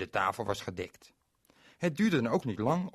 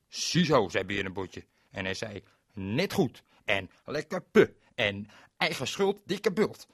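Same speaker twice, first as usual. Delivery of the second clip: put-on defiant boy; 5 dB louder than usual. Berend gloats at his parents, loud and taunting. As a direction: gloat over the mess.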